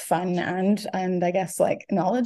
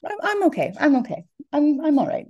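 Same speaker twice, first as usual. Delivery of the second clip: teary-eyed; 10 semitones higher than usual. Real, not acted. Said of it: "Please take your time".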